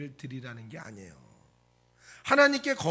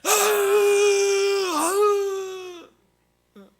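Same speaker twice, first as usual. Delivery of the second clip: loud, high, drawn-out mock wail; acted wailing; 14 semitones higher, 12 dB louder, much slower than usual. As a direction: wail long and loud, hammed up. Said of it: "통곡을 해요". (과장된 통곡 소리 흉내)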